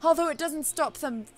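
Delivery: put-on drifting into a British accent. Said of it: "now she's British".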